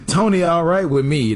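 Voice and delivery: words pulled in on an inhale; talking while inhaling. Retold or imitated. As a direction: say it while sucking in breath. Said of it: "That was the exact quote as he took a rip off the blunt".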